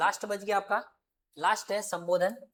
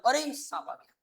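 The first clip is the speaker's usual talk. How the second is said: startled fear; 5 semitones higher than usual. Shown as a demonstration. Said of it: "मैंने तो डर जाऊंगा ना".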